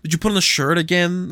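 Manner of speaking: high, hesitant polite question; lightly acted tactful asking. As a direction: feel your way into an awkward question. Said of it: "I'm gonna be tactful".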